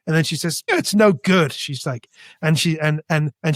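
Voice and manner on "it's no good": higher, louder dismissive imitation; mocking. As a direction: imitate her scornful put-down. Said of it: "starts to mock me".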